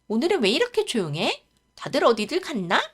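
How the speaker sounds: puzzled wondering. Acted. Daughter looking round an empty house, puzzled. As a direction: wonder aloud with a lifted, swinging pitch.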